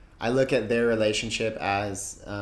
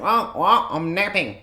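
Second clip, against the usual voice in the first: raised, loud startled dad imitation; just-woken dad; 9 semitones higher, 7 dB louder than usual. Dad woken from a nap by the call, imitated startled voice. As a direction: blurt it as if woken mid-nap. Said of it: "we woke him up from a nap".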